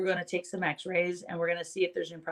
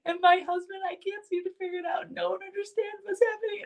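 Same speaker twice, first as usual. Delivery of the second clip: imitating bawling; 11 semitones higher than usual. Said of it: "she starts bawling".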